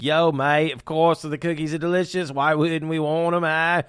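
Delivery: put-on lightly done Australian accent, casual and cheeky; hammed-up Aussie bloke accent; bad Australian accent. Host voicing the Aussies in a self-mocking Australian accent. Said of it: "I'm the worst at accents".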